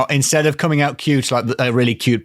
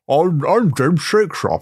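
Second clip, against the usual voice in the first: a friendly ghostly voice; impression of James; 6 semitones higher, slower than usual. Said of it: "That's my impression of you".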